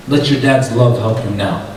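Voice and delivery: low, cold dismissal; understated, low-pitched mockery; cold taunt. Brothers' taunting reply, acted.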